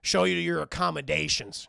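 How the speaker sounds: loud, halting, stiff offer; awkward Beast. Retold or imitated. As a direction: force out politeness with long hesitations.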